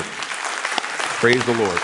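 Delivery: slow, stretched praise; drawn-out praise. Acted. Preacher to congregation, slow praise. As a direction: savor the words.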